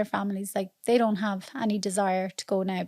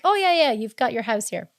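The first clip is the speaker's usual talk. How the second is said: understated, sincere imitation of a host; genuine welcome. Mexican friend offering their house, genuine welcome. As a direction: offer it simply and mean it. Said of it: "They're genuine".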